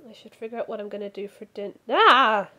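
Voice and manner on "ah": sudden loud startled cry; a sharp loud gasp of fright; startled yelp. Acted. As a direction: jump and yelp in shock. Startled by something hitting back.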